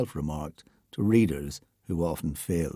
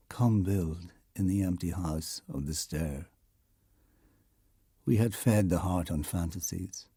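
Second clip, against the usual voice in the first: poem reading. Acted. Narrator reads Heaney's civil war poem, solemn poem reading.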